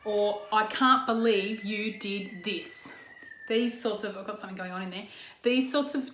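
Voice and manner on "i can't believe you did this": accusing disbelief. Shown as a demonstration. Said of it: "the ones that you might be using are".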